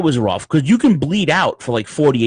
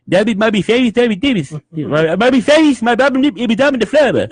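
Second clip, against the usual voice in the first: numbed mouth mumble; 10 semitones higher, 4 dB louder than usual. Retold or imitated.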